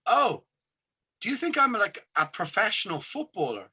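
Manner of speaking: a retold double-take, voice jumping up; incredulous. To the organiser who thinks he's a footballer, incredulous and high.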